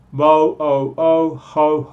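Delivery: Bo and ho stretched on the o; vowel drill on o; isolated o vowel. Shown as a demonstration. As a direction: hold the o from bone and hotel. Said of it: "El mismo sonido vocal".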